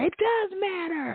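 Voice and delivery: high, drawn-out protest; mock yell. Son yelling back at his mom, mock yell. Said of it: "Are you yelling at me?".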